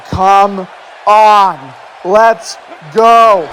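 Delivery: drawn-out mock shout, each word stretched; imitated challenge. Commentator quoting a wrestler facing his rival, drawn-out challenge. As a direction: goad the opponent, imitating a wrestler.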